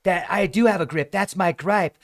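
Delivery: hammed-up grumpy local shouting them off; angry commenter. Mocking a hostile commenter's reply, loud mock rant. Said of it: "this person writes back".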